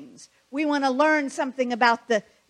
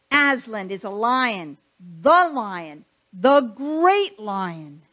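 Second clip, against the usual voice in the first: firm, louder correction; stern; 5 dB louder than usual. Acted. Mister Beaver scolding the girls, stern and louder. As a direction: put the children right, sternly and loud. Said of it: "said Mister Beaver sternly".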